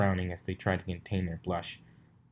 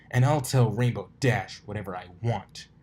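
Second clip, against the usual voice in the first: louder cocky retort; defiant; 5 dB louder than usual. Acted. Colt defying Dash, cocky retort. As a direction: throw it back at her.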